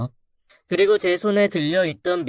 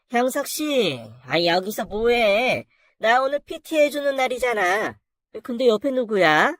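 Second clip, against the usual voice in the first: flirty gym client; 5 semitones higher than usual. Acted. Gym client woman greets husband.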